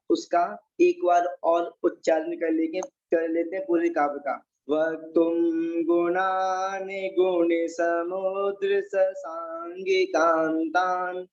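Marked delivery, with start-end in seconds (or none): 4.7-11.3 slow, measured chanting of a Sanskrit shloka; teacher intoning a shloka line by line; verse recitation. Shown as a demonstration. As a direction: recite the verse slowly for the class to repeat.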